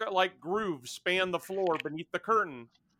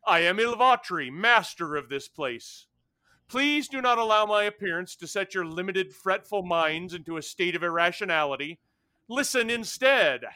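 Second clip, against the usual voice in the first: louder, grand and condescending fire creature; lightly voiced haughty ancient being; telepathic creature; 2 semitones higher, 4 dB louder than usual. GM voices Ilvatri.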